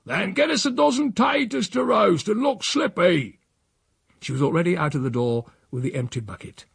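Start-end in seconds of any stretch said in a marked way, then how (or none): 0.1-3.4 put-on raised, demanding old countryman; bossy old Silas. Silas to his housekeeper in their squabble, raised and demanding. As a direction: bark orders back at her.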